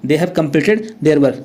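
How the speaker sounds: slow classroom repetition; slow dictation. Shown as a demonstration. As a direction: repeat it slowly for the class. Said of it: "हैव लगता है".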